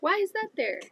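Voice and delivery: high, loud surprised exclamation; startled whoa. Retold or imitated. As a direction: act out a sudden double take. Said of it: "and you're like".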